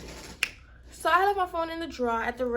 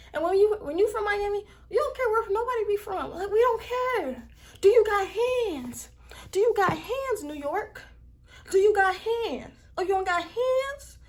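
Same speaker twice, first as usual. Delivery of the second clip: furious retold challenge; 7 semitones higher, 4 dB louder than usual. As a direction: throw it at her like picking a fight. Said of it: "that's how pissed I was".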